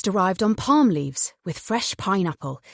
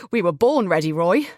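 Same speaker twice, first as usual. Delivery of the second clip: a touch louder, eager call; mock excited cry; 4 dB louder than usual. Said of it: "Jonathan cried".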